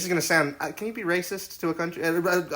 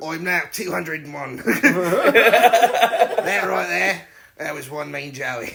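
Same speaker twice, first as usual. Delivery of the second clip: slow, drawled put-on Australian accent; 4 dB louder than usual. Telling a story about a guy coming back for the camera, in an australian voice. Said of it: "Just doing an Australian voice".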